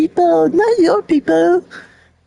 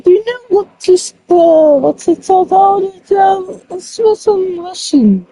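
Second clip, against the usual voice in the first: excited shouting; 2 semitones higher, 4 dB louder than usual. Real, not acted. Loud excited gun talk.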